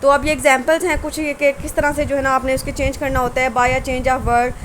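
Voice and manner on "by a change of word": very slow, each word set apart; dictating slowly. Shown as a demonstration. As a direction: read the heading out slowly for dictation. Teacher dictates the rule heading. (Notes के लिए बहुत धीरे बोलना)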